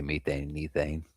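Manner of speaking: "methane and ethane" with long ee; British pronunciation. Retold or imitated. Streamer echoing his British friend, "methane and ethane" with British long ee. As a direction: say "methane and ethane" as MEE-thane and EE-thane. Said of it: "the British pronounce that".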